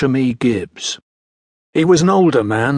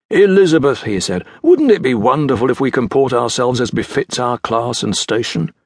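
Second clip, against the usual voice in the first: lightly voiced stern father. Father gently scolds daughter.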